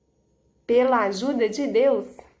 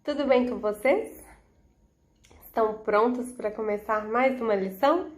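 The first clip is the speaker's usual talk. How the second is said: put-on bright greeting to children; cheerful host welcoming kids; kids show host. Children's Bible lesson opening.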